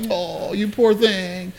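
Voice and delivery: mock pity. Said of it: "I'm like".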